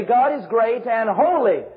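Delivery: slow, weighty stress on "great and holy". Shown as a demonstration. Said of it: "we raise our voice to say".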